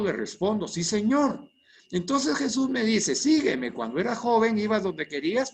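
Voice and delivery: fluent read-through of a prayer dialogue; reading aloud smoothly. Shown as a demonstration. Teacher reads the finished exercise aloud so students hear it, smooth and fluent. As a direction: read the whole dialogue in one flowing go. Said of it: "Se lo voy a leer".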